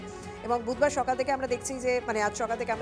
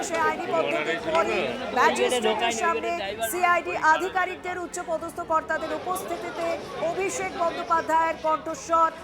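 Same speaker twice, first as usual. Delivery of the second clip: slightly raised, urgent live news call; live breaking-news commentary; 6 semitones higher than usual. Real, not acted. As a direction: announce the arrival as it happens. Anchor calls the arrival live. (সরাসরি breaking নিউজের ধারাভাষ্য)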